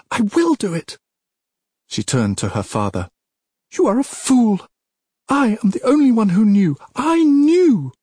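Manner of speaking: very high, loud tirade; enraged princess. Acted. Princess turns on her father, high enraged outburst. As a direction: rail at your father in a high, furious voice.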